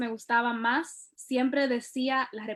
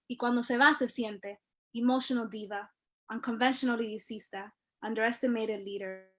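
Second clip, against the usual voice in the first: spoken-word poetry. Acted. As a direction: perform it like a slam poet owning the stage. Performs her poem Spanglish spoken word.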